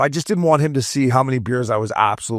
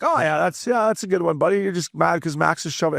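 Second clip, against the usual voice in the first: mock agreement; 5 semitones higher than usual. Retold comeback to heckling fan.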